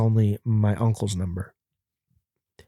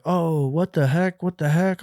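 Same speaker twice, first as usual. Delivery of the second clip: mock dismay; 5 semitones higher than usual. Caught teen reacting to the guard, high mock dismay. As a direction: imitate a caught kid's startled protest. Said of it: "And then I was like".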